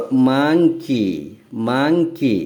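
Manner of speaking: মাংকি in two distinct beats; broken into syllables. Shown as a demonstration. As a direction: split মাংকি as "mang... ki", said twice. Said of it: "দুটো syllable আছে".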